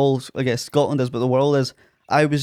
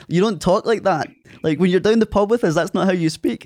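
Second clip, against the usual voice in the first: higher, mock-reproachful ribbing; imitated scolding friends; 5 semitones higher than usual. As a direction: tease him like mates from the pub. Local friends scolding him, acted.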